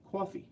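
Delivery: "coffee" with the vowel rounded to "aw"; New York pronunciation. Shown as a demonstration. After spelling out C A W F E E, "coffee" as "cawfee". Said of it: "New York".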